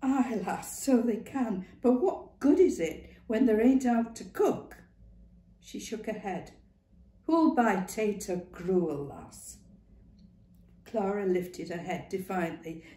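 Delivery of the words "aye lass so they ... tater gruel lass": lightly voiced old Northern woman; brisk, knowing old woman. A narrator's reading. Ma Duckworth voice.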